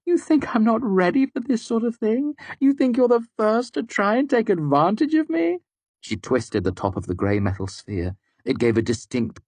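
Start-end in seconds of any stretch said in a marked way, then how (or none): 0.0-5.6 higher, defiant woman's voice; scornful Devi. A narrator's reading. Devi defying the narrator, scornful. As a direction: sneer with triumph. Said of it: "almost chanting the words".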